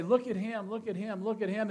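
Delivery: loud, high mock show-off calling; mocking a boastful announcer; mock boastful cry. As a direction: hype a man like a barker. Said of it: "Shall we boast up a man and say".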